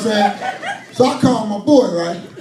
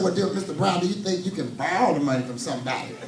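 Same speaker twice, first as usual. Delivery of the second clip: mock prissy collector; 5 semitones lower, 9 dB quieter than usual. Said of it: "He said".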